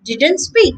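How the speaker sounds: "didn't" with the T dropped before "like", slowly; silent T demo. Shown as a demonstration. Teacher showing connected speech, no T. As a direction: run "didn't" into "like" with no T. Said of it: "the T has become silent".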